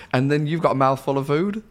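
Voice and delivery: laughing. Real, not acted. Teasing co-host, laughing.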